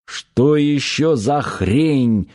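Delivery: slow, gruff angry growl; a drawn-out irritated growl. Acted. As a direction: snarl the question out slowly. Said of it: "рыкнул".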